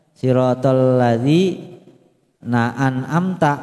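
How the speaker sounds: slow reading broken inside the phrase; measured, segmented verse reading; phrasing demonstration. Shown as a demonstration. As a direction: read it unchanted, pausing mid-phrase. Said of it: "kalau main intonasi".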